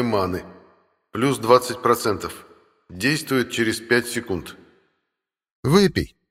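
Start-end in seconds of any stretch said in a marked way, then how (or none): 5.6-6.2 high cat, advising. Acted. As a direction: voice the cat higher and louder. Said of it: "посоветовал кот".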